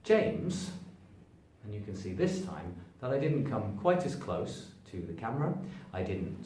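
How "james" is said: "James" higher, lightly stretched and pushed; first gear stress. Shown as a demonstration. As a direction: give "James" a moderate lift. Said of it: "something like this".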